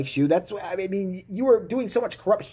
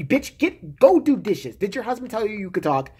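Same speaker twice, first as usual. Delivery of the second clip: sexist sixties man; 5 semitones higher than usual. Retold or imitated. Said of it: "It's like".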